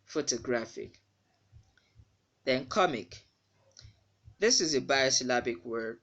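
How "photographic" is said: "photographic" with the second O reduced to "uh"; schwa pronunciation. Shown as a demonstration. Teacher repeating the correct word, schwa pronunciation. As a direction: model "photographic" as "foh-tuh-GRAF-ik".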